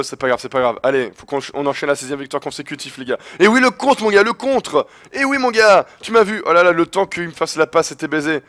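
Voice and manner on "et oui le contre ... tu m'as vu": triumphant gloat. Real, not acted. Gamer taunting the player he just blocked, high crowing. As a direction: rub it in, crowing.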